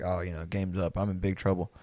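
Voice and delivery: quiet, sinking mock dread; acted inner voice of a caught kid; resigned kid. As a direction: say it softly, as if giving up.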